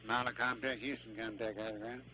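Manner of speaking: tinny radio voice check; radio chatter. Real, not acted. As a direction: call through the comm loop. Ground station radio network check.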